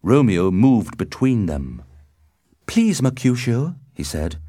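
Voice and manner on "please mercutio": raised, louder appeal; urgent plea. A narrator's reading. Romeo steps between the swordsmen, pleading urgently. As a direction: plead with your friend, voice lifted.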